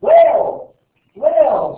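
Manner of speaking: very high mock yell; imitating excited young son. Father imitating his son spotting an animal, high yell. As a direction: call out like a thrilled child. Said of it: "he's like".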